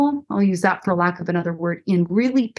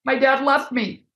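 lightly voiced hurting survivor, a touch higher; voicing the hurting woman; 6 semitones higher than usual. Pastor voicing a survivor for Sean, lightly higher. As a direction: speak as the wounded woman, gently. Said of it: "that she would have said".

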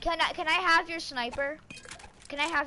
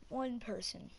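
whisper; 4 semitones lower, 12 dB quieter than usual. Real, not acted. Whispered repeat to self.

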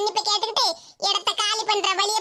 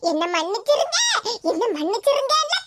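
mock wailing plea. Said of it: "கதறிட்டு கிடந்தா".

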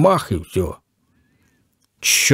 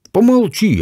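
sharp and higher, cutting him short; curt cut-off; 11 semitones higher than usual. A narrator's reading. Kostya silencing the professor, curt and higher. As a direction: shut him up in one hard word. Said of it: "отрезал Костя".

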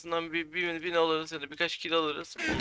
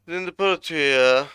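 annoyed outburst; 3 semitones higher, 8 dB louder than usual. Real, not acted. Enemy throws ender pearl again.

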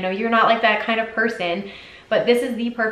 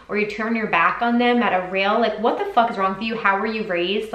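popping off. Real, not acted. Ranting at fans who abuse artists, indignant. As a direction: vent at the trolls, fed up and incredulous. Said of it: "sorry, I just popped off".

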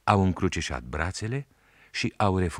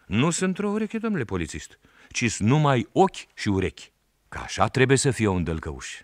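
much higher, louder boy's voice, playing innocent; a village boy sassing the policeman; boy Sandu answering the policeman, high and cheeky; 6 semitones higher, 4 dB louder than usual. A narrator's reading.

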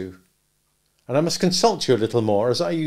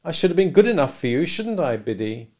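higher and louder, longing, quickening toward the end; wistful regret; 5 semitones higher, 4 dB louder than usual. A narrator's reading. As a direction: build from regret to a pleading question. Pip voiced, rising and louder.

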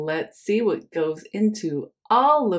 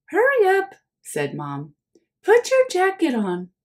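hurrying mom; 10 semitones higher than usual. Acted. Mom hurrying Oliver into his jacket, high and urgent. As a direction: chivvy the child out the door.

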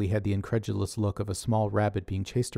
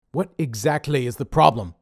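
louder, gruff-voiced boss scolding; Dave's scolding voice; 4 semitones higher, 7 dB louder than usual. A narrator's reading. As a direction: play Dave the bossy leader, chewing him out. Dave demands answer.

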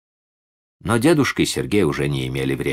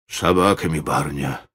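cold and dignified; 2 semitones lower than usual. Acted. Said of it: "сказал он холодно и с достоинством".

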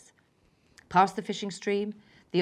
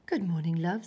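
sleepy. Acted. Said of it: "said Mum sleepily".

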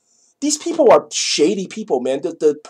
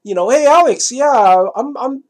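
put-on young boy; 2 semitones higher, slower than usual. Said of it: "Boys like".

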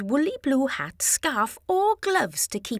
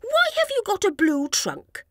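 a singer's voice; 9 semitones higher than usual. A narrator's reading. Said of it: "he asked".

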